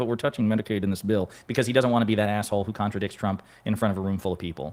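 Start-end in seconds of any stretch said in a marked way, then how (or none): 0.0-1.3 mock muttering under the breath. Imagining a Republican contradicting Trump: imitating someone muttering under breath. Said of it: "I can see him saying it under his breath".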